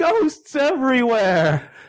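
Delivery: very high, drawn-out, panicked scream. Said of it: "running around screaming".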